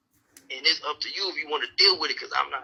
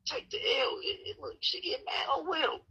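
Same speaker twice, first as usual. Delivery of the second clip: much higher, slow exaggerated taunt; mock tough guy. Mocking scared husbands in a high hammed-up voice. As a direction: ham up a buddy egging on timid husbands.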